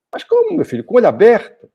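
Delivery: a father who can't believe his son's excuse; surprised father. Acted. Father questioning son.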